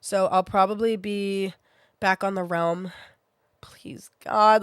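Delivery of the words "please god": whispered plea. Real, not acted. Praying to recover in time.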